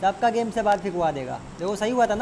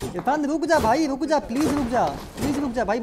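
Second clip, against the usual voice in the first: urgent pleading; 4 semitones higher than usual. Real, not acted. Begging teammate to stop shooting.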